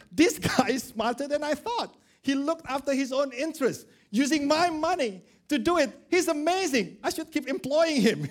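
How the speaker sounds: high, admiring and amused; impressed master. Retold or imitated. Master praising his dishonest manager, high and admiring. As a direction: marvel at the clever servant. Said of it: "he said".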